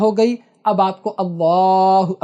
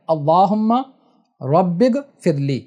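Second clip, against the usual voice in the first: slow supplication; slower than usual. Shown as a demonstration. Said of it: "یہ تسبیح ایک بار پڑھنا ہے".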